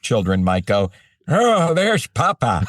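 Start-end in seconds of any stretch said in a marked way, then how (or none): 1.3-2.7 put-on high, slow, delighted child spotting Papa; mock child's voice. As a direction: lift it up like a little kid pointing at the TV. Children spotting dad on screen.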